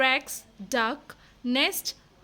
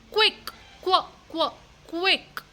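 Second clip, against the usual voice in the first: urgent call; 5 semitones higher than usual. Acted. Helmet urging the bus.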